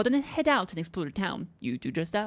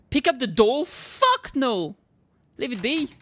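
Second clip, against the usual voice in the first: alarmed refusal; 5 semitones higher, 5 dB louder, slower than usual. Real, not acted. Refusing creepy doll.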